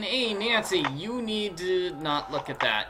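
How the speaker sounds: a light hint of a New York accent; breezy pitchman with a faint New York accent; lightly put-on New York accent; Big Island Mike New York accent. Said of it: "he's saying".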